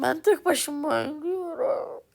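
slow whispered aside to himself; a slow private whisper while playing alone. Real, not acted. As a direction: breathe it out under your breath, slowly. Muttering to himself mid-game.

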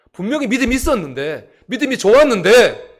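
loud, high insistent protest; full-force preaching. Real, not acted. Preacher insisting the disciples did have faith, full-force preaching. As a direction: push it up into a cry from the pulpit.

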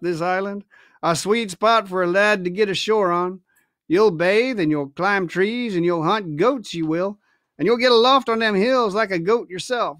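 put-on coaxing the boy with false warmth; friendly old sailor. Silver flattering young Jim about the island, lightly voiced old sailor.

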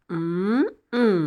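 a smug grandmother's short retold laugh; mild mock arrogant laugh; arrogant chuckle. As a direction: chuckle proudly at her own cunning. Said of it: "മുത്തശ്ശി അഹങ്കാരത്തോടെ ചിരിക്കുകയാണ്".

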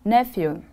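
"Nephew" with the weight on NEPH, then falling; stress on first syllable. Shown as a demonstration. Teacher repeats the word after the stress rule, NEPH stressed in "Nephew". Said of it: "The stress is on the first syllable".

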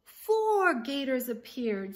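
usual speaking voice

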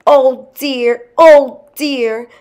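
high, woeful lament, acted; sobbing wail. A narrator's reading. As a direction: wail it as a distressed wife in a story. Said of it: "she sobbed".

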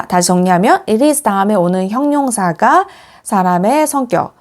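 ordinary delivery

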